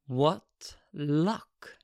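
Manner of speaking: hushed, voiceless murmur of wonder; awed whisper. Acted. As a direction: whisper it to yourself, marvelling. Man watching her dance in awe.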